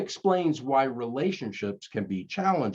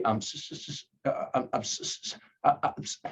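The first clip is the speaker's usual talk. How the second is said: stuck on the s, can't get it out; mock the Fonz choking on sorry; a light imitation of the Fonz failing to apologize; Fonz stammer; 3 semitones higher, 4 dB quieter, faster than usual. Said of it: "He could never say".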